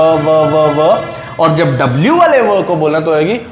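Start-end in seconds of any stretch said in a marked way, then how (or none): 0.0-1.0 व with upper teeth on lower lip; repeated व, buzzing V; teeth-on-lip V sound. Shown as a demonstration. Teacher isolates the V sound. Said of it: "तो sound रहेगी व".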